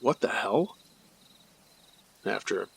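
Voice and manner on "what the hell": startled gasp. Retold or imitated. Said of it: "we both gave out little gasps like".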